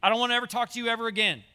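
rattled off fast, brushing Steve off; a quick, fed-up brush-off; mock dismissive God. Preacher mocks a false image of God, fast dismissive voice. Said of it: "He's not putting his hand up and saying".

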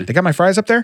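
lightly voiced Sinbad asking for fries; a hint of Sinbad at the window; Sinbad impression. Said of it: "like Sinbad, you say".

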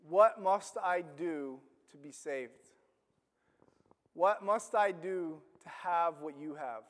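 low, soft, slow plea; pleading jailer. Acted. Jailer kneeling before Paul and Silas, soft slow plea. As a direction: ask it humbly, almost under the breath.

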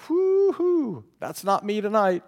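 high, breezy know-it-all voice; cocky listener. Retold or imitated. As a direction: brush it off cheerfully. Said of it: "You say".

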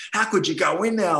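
a lightly voiced kid, amazed; kids asking. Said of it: "or kids be like".

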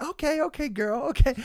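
high-pitched imitation of an obliging singer. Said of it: "And she went".

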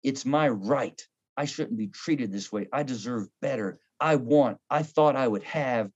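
lightly voiced entitled husband; entitled dad. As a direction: mutter like a wronged dad. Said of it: "guys can be so guilty".

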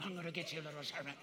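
mild mock growl on the taunt; growling child. Little Seth growling at the serpent killer, mild mock growl. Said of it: "Do it with your growl".

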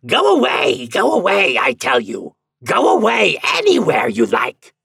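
high, loud devilish shouting; prince's shout. A narrator's reading. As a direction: drive the visitor off at full voice. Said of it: "shouted the prince of hell".

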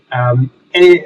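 posh English gentleman voice; home counties accent. Acted. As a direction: speak as a refined old Englishman. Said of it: "this is not a Surrey accent".

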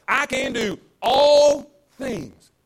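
preaching climax. Acted.

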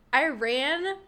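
loud laughing while telling. Real, not acted. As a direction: laugh through the words. Laughing retelling the running.

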